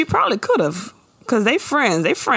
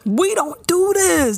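mock scolding; 11 semitones higher, slower than usual. Mock disapproval of the act.

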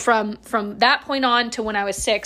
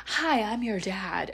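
stranger dad greeting; 7 dB quieter, slower than usual. Retold or imitated. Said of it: "And this guy comes in".

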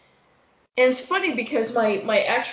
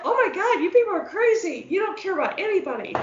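mock shock; 8 semitones higher, faster than usual. Her younger self shocked by city.

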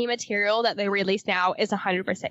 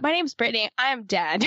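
put-on Valley girl. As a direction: read it like a bored Valley girl. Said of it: "I should say that".

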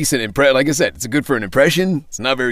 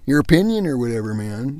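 toned-down West Coast accent; 2 semitones higher than usual. Shown as a demonstration. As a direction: lightly put on a laid-back West Coast accent. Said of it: "gave him that West Coast accent".

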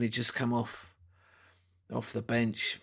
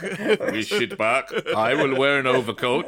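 laughing hammed-up Eastern European accent; comic Czech coach voice, laughing; mock Eastern European accent; 5 dB louder than usual.

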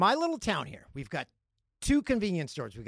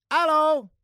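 mock German accent; 10 semitones higher, 9 dB louder than usual. Greets German listeners.

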